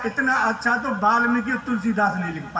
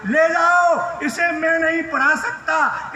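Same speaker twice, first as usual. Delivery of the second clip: angry headmaster; 4 semitones higher, slower than usual. Retold or imitated. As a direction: blow up at the father. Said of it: "headmaster गुस्सा हो गया".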